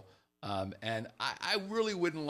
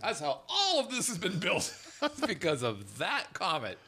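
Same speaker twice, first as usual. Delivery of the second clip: laughing mock dealer; 5 semitones higher than usual. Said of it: "we're like".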